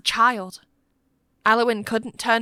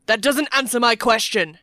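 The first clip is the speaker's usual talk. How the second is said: loud, harsh rebuke; angry shout; 2 semitones higher, 6 dB louder than usual. A narrator's reading. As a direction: shout down the plea. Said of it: "Matthew shouted".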